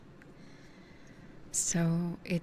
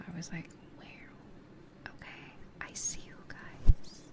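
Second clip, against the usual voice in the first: whispering. Real, not acted. ASMR whisper chat.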